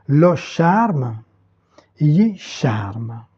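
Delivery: "charme" said as in French, after each article; French word kept unchanged. Shown as a demonstration. Teacher shows students the borrowed word, French pronunciation kept. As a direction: keep the French "charme", silent final e. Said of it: "qui reste prononcé tel quel".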